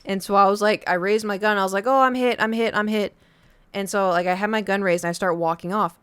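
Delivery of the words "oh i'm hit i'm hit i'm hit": louder, higher hammed-up cry of being hit; faked being hit. Kid faking a hit to escape the game, hammed-up loud cry. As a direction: overplay it, fake the hit.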